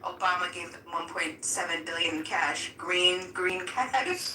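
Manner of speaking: mock Trump quote. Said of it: "I was just laughing at the".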